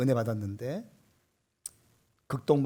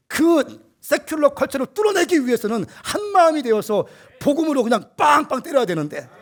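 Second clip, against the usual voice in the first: loud, high-pitched fervent sermon; impassioned pulpit cry; full-force preaching; 9 semitones higher, 8 dB louder than usual. Real, not acted. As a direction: preach at the top of the voice, driving each phrase.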